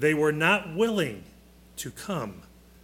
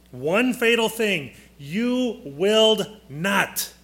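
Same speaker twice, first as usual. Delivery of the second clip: you willed not, drawn out and higher; slow emphatic stress; 4 semitones higher, 3 dB louder, slower than usual. Shown as a demonstration. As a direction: stretch each word of willed not. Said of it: "teacher stressing point".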